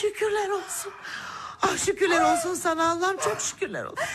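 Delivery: crying with relief; tearful thanks. Acted. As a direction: sob out thanks to God. Mother thanks God, child walks.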